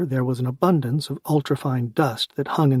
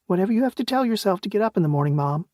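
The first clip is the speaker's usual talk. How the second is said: deadpan; 7 semitones higher, faster than usual. A narrator's reading. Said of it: "she said in a deadpan voice".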